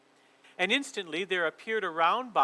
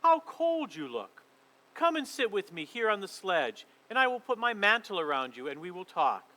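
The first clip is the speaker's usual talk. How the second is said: falsely sweet. Acted. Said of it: "she said in a quite different voice".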